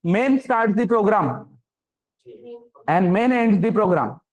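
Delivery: very slow, drawn-out recitation of a rule; quoted college slogan. Retold or imitated. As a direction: spell the slogan out word by word like a lecturer. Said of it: "तुमने कभी colleges में सुना होगा".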